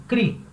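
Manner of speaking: "cri" alone, pitched high; single out "cri" as the strong beat; stressed syllable isolated. Shown as a demonstration. Teacher pointing out the strongest syllable, high stressed "cri". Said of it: "a primeira sílaba é a mais forte".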